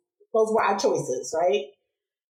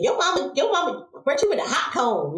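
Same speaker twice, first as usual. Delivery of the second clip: higher sing-song schoolyard tease; kids' taunt; 5 semitones higher than usual. Retold or imitated. Schoolkids taunting the girl about her burnt ear, sing-song. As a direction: taunt her like a playground bully.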